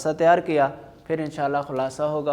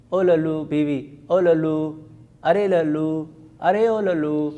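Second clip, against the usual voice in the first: calling out; 3 dB louder than usual. Acted. Wife calling the servant.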